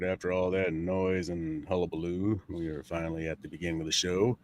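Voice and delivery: stuffy, blocked nose voice; talking with a head cold; pinched nose. Real, not acted. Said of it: "sounds like somebody's holding my nose for me".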